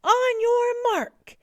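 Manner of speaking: high, loud, drawn-out starting call; coach's bellow. A narrator's reading. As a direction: bellow it slowly to the swimmers. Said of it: "bellowed the coach".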